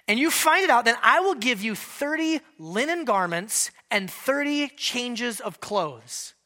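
boasting Samson. Acted. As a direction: show off to the whole party. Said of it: "He's boasting".

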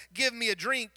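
just demand it, no manners; blunt demand. Shown as a demonstration. Thirsty stranger ordering a drink from the woman, blunt. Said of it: "you would have asked".

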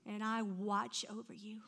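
soft, breathy-quiet promise; tender whisper. Acted. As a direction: whisper it like a comfort.

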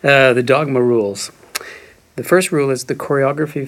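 hoarse, raspy reading voice; whiskey voice. Pretend. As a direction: read it in a rough whiskey voice. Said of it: "With whiskey voice".

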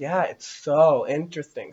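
slow, gushing fake fascination; playing overly obsessed. Podcaster playing along with the nun lady, overly fascinated. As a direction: linger on it like an obsessed follower. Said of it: "playing the overly, like, obsessed weird freak".

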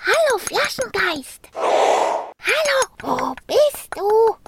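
high searching call. A narrator's reading. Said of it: "so sehr sie auch riefen".

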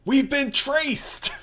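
high, loud, drawn-out alarm; acted shout of alarm, stretched out; alarmed cry. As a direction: cry out in high-pitched panic. Character discovers they are traced.

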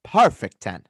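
put-on folksy Minnesotan accent; put-on Minnesota accent. Rating a player for co-host, Minnesotan accent. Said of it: "weird guy from Minnesota".

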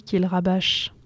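close, intimate ASMR reading. Acted. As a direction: read it right in your ear. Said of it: "en A S M R dans la bonnette".

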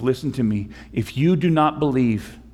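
ordinary talk

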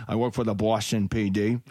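mild put-on Boston accent; a proud Boston cop bragging, accent laid on lightly; Boston cop boasting in a light local accent. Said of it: "I just liked it for the Boston accent".

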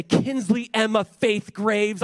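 loud, slow full-name scolding; stern parent. Retold or imitated. Dad calling sassy daughter to account, slow and loud. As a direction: call the child's full name like trouble. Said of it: "I'll just say".

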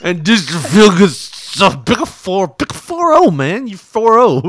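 loud, slow, slurred party voice; drunk imitation. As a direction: ham up a drunk rocker. Mimicking the slurred cameo.

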